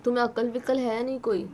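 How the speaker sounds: angry scolding of her friend. Acted. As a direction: tell her off sharply. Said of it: "एकदम गुस्से में बोलती है".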